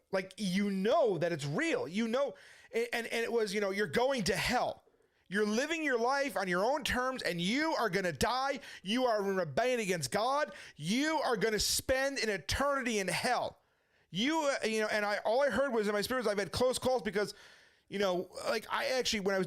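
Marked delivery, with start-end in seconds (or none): 3.7-13.6 solemn warning. Retold or imitated. Inner voice of conviction warns him.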